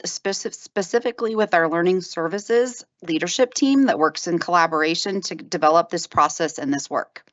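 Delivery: breathless, holding back a cough; running out of air. Real, not acted. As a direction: speak while short of breath. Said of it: "I'm running out of air".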